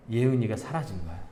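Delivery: ordinary delivery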